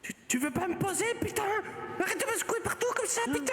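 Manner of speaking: high, cranky card voice; annoyed talking card. Acted. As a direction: complain like a grumpy card being shaken. The talking card being shaken.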